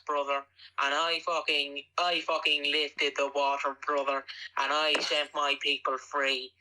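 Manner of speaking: rambling mock wrestler promo, lightly voiced; mock Hulk Hogan promo. The speaker riffing a fake Hulk Hogan promo, lightly voiced. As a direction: ramble conspiracy theories like a cocky wrestler.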